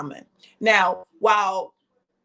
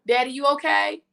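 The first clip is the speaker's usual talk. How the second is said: calling out to daddy; 7 semitones higher than usual. Real, not acted.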